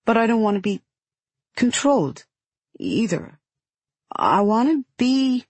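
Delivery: put-on high-pitched child daring to object; greatly daring. A narrator's reading. Girl daring to answer back to her guardian, greatly daring. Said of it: "Then, greatly daring, she adds".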